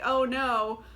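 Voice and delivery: mock oh-no panic; mock dismay. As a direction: play the victim, a bit loud. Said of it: "baffled that".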